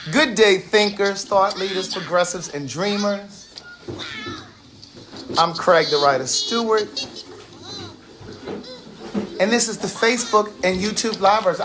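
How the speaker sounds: measured, projected host greeting; show sign-on. Acted. Host greeting live viewers with a signature intro, show sign-on. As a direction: open the show with a practiced catchphrase. Delivers show's scripted sign-on.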